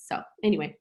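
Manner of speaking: whispered aside. Real, not acted. Mom whispering a quick aside to viewers before the next topic. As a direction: drop to a breathy whisper to move on.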